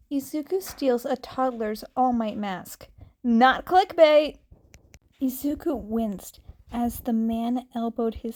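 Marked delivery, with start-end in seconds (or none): 3.2-4.4 emphatic aside. A narrator's reading. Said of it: "chapter title aside".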